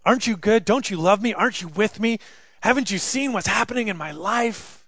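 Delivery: earnest anguished lament. Acted. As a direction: plead with God in hurt. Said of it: "this psalm of".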